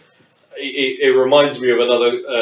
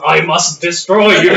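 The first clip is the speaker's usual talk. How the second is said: imitating a thick German accent; hammy German strongman accent; 3 semitones higher, 4 dB louder than usual. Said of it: "in the most German accent".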